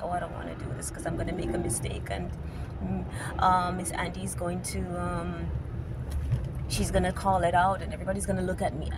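fast, fretful student voice; mock shy student. Teacher voicing a shy student's worries, quick and fretful. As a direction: rush it like a nervous student. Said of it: "they're going to feel like".

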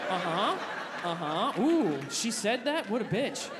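slow, amused mock agreement; lazy uh-huhs with a chuckle; fake listening. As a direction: play along without listening. Pretending to listen to girlfriend.

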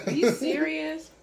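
high, slow, laughing through it; laughing disbelief. Real, not acted. Repeats it, now laughing.

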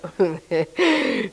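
a put-on laugh of refusal; mock dismissive laugh. Newcomer asked into a Christmas play, mock scoffing laugh. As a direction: laugh off the very idea, imitating yourself.

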